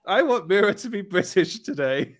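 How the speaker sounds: hammed-up diva declaration; mock actress announcement. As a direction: send up an actress making a whim known. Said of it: "she turns up and she's like".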